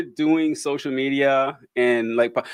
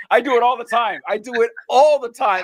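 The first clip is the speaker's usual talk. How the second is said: higher, animated self-quote; raised-pitch exclaimed realization; retold realization; 5 semitones higher than usual. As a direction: act out suddenly recognizing your own habit. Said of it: "I was like".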